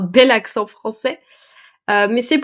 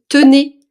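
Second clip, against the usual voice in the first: "tenez" stretched slowly and lifted, handing it over; offering tenez; 4 semitones higher, 9 dB louder than usual. Shown as a demonstration. Teacher showing how a vendor offers a taste, "tenez" drawn out. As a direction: say "tenez" drawn out, as if holding out a sample. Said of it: "quand quelqu'un vous fait goûter".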